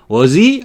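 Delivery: "Was he?" said rising in surprise; doubting rising question; rising tag. Shown as a demonstration. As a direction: lift "Was he?" at the end. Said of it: "하고 올린 거예요".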